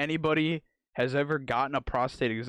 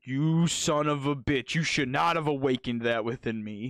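mock angry patient; 3 semitones higher than usual. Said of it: "immediately anger and violence".

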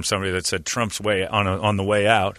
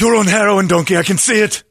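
high, loud scolding shout; loud accusation; 11 semitones higher, 8 dB louder than usual. Retold or imitated. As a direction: call him out at full volume. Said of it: "And I'm like".

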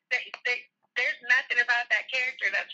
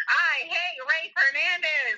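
E J voice; 5 semitones higher, much slower than usual. Retold or imitated. Guest impersonating a soap character to declare her hate, slow and drawn out. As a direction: stretch each word out like a smug soap villain. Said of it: "I'm gonna say this in the E J voice".

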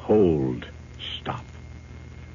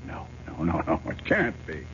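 whispered despair; 3 semitones lower, 6 dB quieter than usual. Acted. Realizes he is stuck in time.

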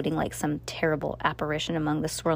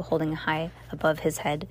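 usual speaking voice

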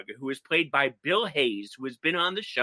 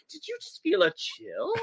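mock spooked; 11 semitones higher, 4 dB quieter than usual. Other characters voiced, spooky.

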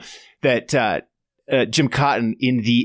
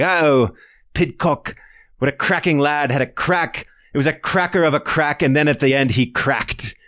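higher-pitched hammed-up British accent; mock British lingo; 4 semitones higher than usual. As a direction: play at being a British cycling fan. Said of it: "our British cycling lingoologist".

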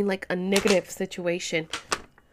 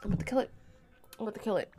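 quiet determined; 9 dB quieter, much faster than usual. Real, not acted. Repeats, hunting fly.

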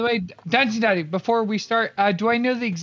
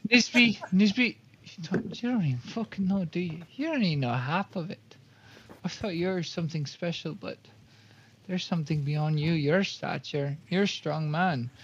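ominous warning; 4 semitones lower, 6 dB quieter than usual. Acted. Ominous in-character warning to Nisby.

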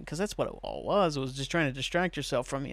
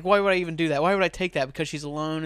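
mildly indignant protest, a bit louder; retold arguing; 2 semitones higher, 5 dB louder, faster than usual. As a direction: argue back as the exasperated sketch character. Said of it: "starts arguing with the guy".

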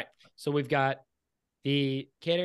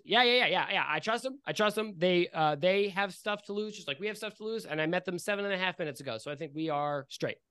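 gnome Riley voice; 3 semitones higher than usual. Acted.

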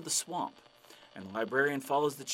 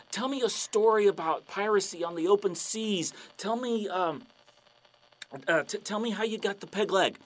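higher, pleading and excited; eager fan; 4 semitones higher than usual. Acted. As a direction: beg for the story. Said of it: "the guy's like".

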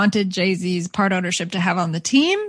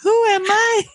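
high, hooting owl voice; 11 semitones higher than usual. Pretend. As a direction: hoot the words like a lonely owl. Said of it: "This is like what a real owl feels like".

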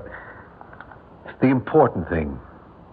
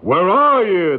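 loud, higher mock giant roar; 8 semitones higher, 3 dB louder, slower than usual. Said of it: "the giant roared".

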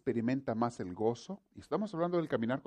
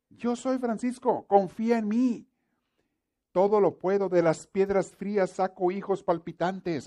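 higher, louder, solemn commanding God speaking to Francisco; 6 semitones higher, 7 dB louder than usual. Acted. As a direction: proclaim as a mighty, insistent God. Preacher voices God to Francisco.

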